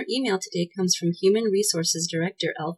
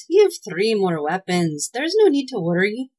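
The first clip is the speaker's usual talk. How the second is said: elf voice; 2 semitones higher, 4 dB louder than usual. Acted. Tweedledee reassures Claus.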